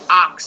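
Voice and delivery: "ox" said as "ock", vowel first; ock sound. Shown as a demonstration. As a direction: say "ox" as a vowel closed by k. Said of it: "it makes an ox sound".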